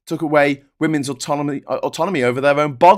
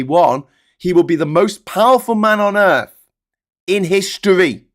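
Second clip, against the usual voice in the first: grave loud warning; 4 semitones higher, 4 dB louder than usual. Real, not acted. Warning all viewers about Trump, loud and grave. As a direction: hammer home the danger.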